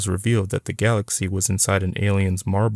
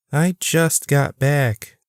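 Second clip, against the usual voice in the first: playful yell; 7 semitones higher, much slower than usual. A narrator's reading. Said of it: "she yelled playfully".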